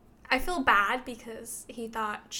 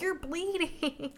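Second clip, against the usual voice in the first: higher and slow, a lightly voiced stunned man; mock deadpan Zane; 6 semitones higher, slower than usual. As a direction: drawl it out in mock shock. Imitating shocked Zane.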